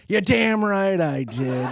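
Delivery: mock Jessup, laughing through it; laughing defiant boast. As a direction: say it proudly while cracking up. Same quote, laughing, slower.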